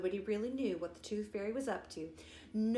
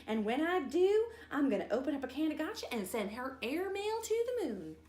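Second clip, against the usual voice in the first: put-on higher and louder, fuming kid; boastful angry vow; angry threat; 6 semitones higher, 3 dB louder than usual. A narrator's reading. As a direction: spit it out like a furious little sister.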